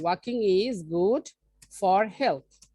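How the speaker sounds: "walking is good", pause, "for health"; slow dictation. Shown as a demonstration. Teacher repeating an example for learners to follow, slow and in pieces. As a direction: read it out slowly, breaking before "for health".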